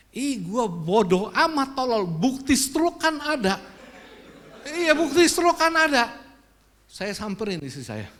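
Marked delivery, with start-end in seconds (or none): 0.1-6.3 louder, higher self-scolding; sudden realization. Retold or imitated. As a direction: realize it suddenly, annoyed at yourself. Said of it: "Saya baru inget waktu di luar".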